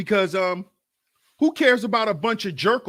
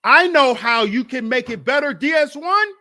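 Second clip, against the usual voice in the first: loud, high insistent pitch; louder tempting devil; 4 semitones higher, 7 dB louder than usual. Retold or imitated. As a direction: sell him the lie hard. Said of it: "The devil come to you and be like".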